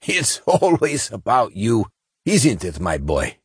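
slow, high, laughing through tears; half laugh, half sob; chuckle and sob. Acted. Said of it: "between a chuckle and a sob".

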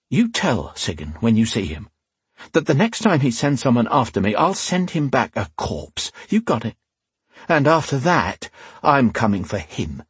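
measured threat, rising at the end; cold menacing threat. Acted. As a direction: lean in and promise him a corpse. Rian threatens the thug.

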